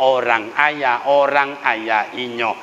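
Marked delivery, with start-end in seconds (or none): none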